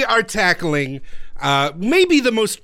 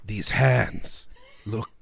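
deep, very slow rock giant voice; ponderous, low stone creature, dragging each word; rock biter; 11 semitones lower, 7 dB quieter, slower than usual. Acted. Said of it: "rock biter bruiser".

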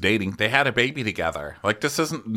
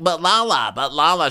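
higher pleading repeated; mock pleading interruption; 7 semitones higher, 3 dB louder than usual. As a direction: try to cut in twice. Voicing Sandoval trying to interrupt.

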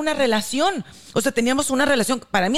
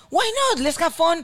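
imitating a cocky flirt; 7 semitones higher, slower than usual. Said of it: "porque me dice".

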